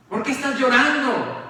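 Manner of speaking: the same question pushed harder. Retold or imitated. Marta y María acusan a Jesús, en voz más alta. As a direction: demand an answer, reproachful. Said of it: "diría Marta y María".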